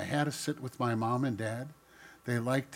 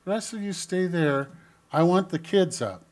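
put-on Jesus calling the kids; 7 semitones higher, 6 dB louder than usual. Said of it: "He said".

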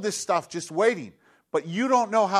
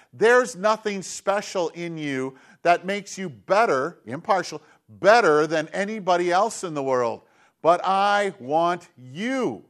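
slow tender; slower than usual. Acted. God speaking tenderly to Israel.

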